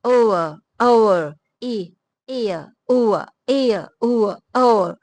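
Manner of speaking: ending sounds drawn out as a neutral uh; relaxed schwa in ایئر and اوور; schwa sound demo. Shown as a demonstration. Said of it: "اس کی نشانی کیا ہے کہ یہ ایئر".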